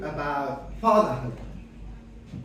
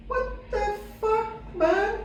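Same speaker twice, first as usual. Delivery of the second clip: high, drawn-out incredulous cry; disbelief; 12 semitones higher, 3 dB louder, slower than usual. Acted. Comedian answering the stranger at the bar, high-pitched disbelief. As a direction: stretch it out high, building to loud amazement. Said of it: "I look at him in disbelief".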